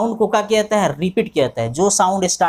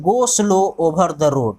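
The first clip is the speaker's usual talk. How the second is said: slow dictation; much slower than usual. Shown as a demonstration. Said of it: "दूसरा example लिख सकते".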